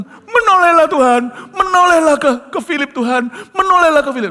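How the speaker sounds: high loud crying plea; tearful pleading. Retold or imitated. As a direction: beg through tears. Friend praying in anguish.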